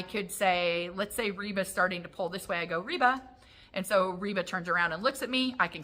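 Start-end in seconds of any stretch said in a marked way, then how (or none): 2.8-3.2 higher, light name call; calling the dog. Shown as a demonstration. Trainer redirects dog pulling away, higher name call. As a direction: call a dog's name to turn it round.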